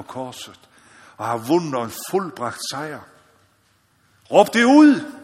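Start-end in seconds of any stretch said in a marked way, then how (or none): 4.3-5.1 loud, high preacher's cry; rally the congregation, full voice; shouted call. Acted. Preacher urging congregation to proclaim, shouting.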